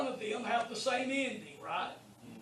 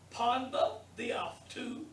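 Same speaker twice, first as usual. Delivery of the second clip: slow Greek reading; slower than usual. Shown as a demonstration. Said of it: "that's how it's pronounced".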